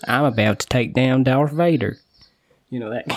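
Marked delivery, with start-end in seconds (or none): 0.1-2.0 playful mock American hero; kid's make-believe American voice, lightly done; put-on American accent. UK kid playing with toys, imitated American accent. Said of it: "the voices that they'll put on will be American".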